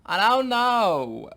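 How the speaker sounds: loud, high, long drawn-out impression; old Jewish impression. Impressionist retrying the old couple, drawn-out old Jewish voice. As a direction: stretch it out as a hammed-up old Jewish character. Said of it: "like an old Jewish couple".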